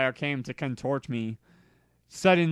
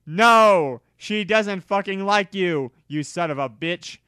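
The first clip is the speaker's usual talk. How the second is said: loud, higher furious yell; angry yell; 5 semitones higher, 6 dB louder than usual. Acted. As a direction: yell it at him. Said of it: "yelled Draco".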